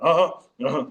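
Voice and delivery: short wordless coded grunts; imitated grunts. Veterans signalling the play in practice, imitated grunts. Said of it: "and they grunt".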